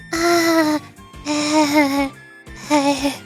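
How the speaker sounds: drawn-out, level "uh"s; uneasy stammer. Acted. Instructor caught between squabbling guests, uneasy. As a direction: stall helplessly, one "uh" at a time.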